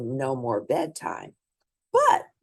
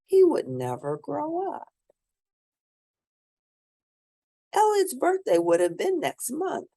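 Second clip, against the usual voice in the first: put-on lively read-aloud voice for children; storybook reading; 2 semitones higher than usual. A narrator's reading. Reading a picture book aloud to children, lively storybook narration. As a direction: bring the bedtime story to life for little listeners.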